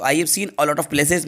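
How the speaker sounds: slow, word by word; slow dictation. Shown as a demonstration. (धीमे-धीमे दोहराना)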